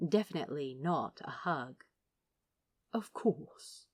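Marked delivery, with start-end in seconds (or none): 2.9-3.9 a gentle, kindly murmur. A narrator's reading. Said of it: "murmured the angel, kindly".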